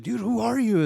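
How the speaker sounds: high-pitched retold disbelief; mock incredulity. Everyone questioning the returned stranger, exaggerated bafflement. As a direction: ask it like a baffled bystander.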